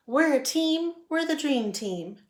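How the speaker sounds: rally the team like a coach; rallying cheer. A narrator's reading.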